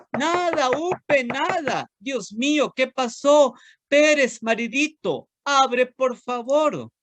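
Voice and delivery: mounting panic in a tiny high voice; worried little ant. Acted. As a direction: plead with the missing husband to open up. Ant finds husband not answering.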